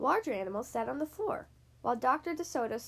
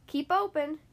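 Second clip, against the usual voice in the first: loud, high storybook yell; 5 semitones higher, 5 dB louder than usual. A narrator's reading. Dentist to fox with quivering jaw, acted yell. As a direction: yell the order, pitched up. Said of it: "yelled Doctor DeSoto".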